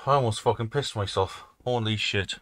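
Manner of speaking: breathless terrified yelling; panicking gamer. Real, not acted. Fleeing monster in horror game.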